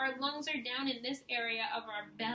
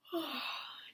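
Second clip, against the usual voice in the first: demo yawn; 5 dB quieter than usual. Shown as a demonstration. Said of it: "go ahead and try and yawn".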